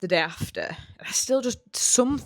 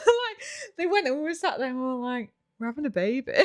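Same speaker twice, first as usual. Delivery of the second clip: giggling through the words; laughing; 6 semitones higher than usual. Real, not acted. Finally alone with her partner, laughing in disbelief. Alone again after the visitors.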